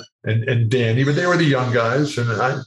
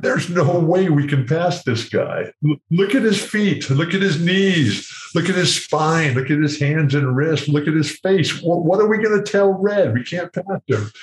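lightly voiced fretting doctors, higher; a hint of panicked doctors whispering in the corner; worried doctors; 6 semitones higher than usual. Doctors fretting over the player's x-rays, a touch panicked. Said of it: "I can hear 'em talking in the corner".

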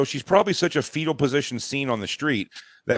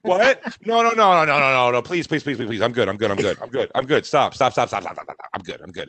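mock frantic protest; 2 semitones lower than usual. Wife refuses help on the street, mock frantic protest. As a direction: burst of hammed-up panic dying down.

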